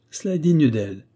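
furious painter's cry of wounded pride; thundering voice. Acted. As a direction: thunder it at her like a wounded artist. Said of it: "s'écria l'artiste d'une voix tonnante".

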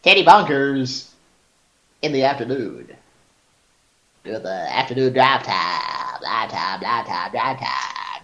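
mock drive-time DJ hype; radio DJ voice. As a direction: sell it like an afternoon radio jock. Hammed-up radio DJ bit.

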